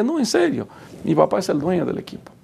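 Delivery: insistent, fast, starting high on "No, en serio"; insisting. Retold or imitated. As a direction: push to be believed. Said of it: "mi amigo decía".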